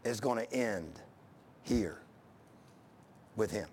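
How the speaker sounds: low, sinking, soft and solemn; voice of God. Acted. God pronouncing final judgment on Eli, low and solemn. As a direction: let God's verdict drop low and quiet. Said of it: "God said".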